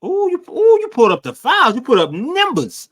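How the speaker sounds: high, loud exaggerated ooh; mock amazement. Host reacting to pulled-up files, mock amazement.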